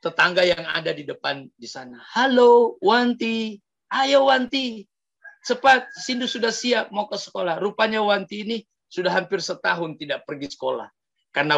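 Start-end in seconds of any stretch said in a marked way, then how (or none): 2.1-7.6 calling out. Acted. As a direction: shout over to her neighbour to hurry. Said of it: "Ternyata sindu teriak dengan temannya".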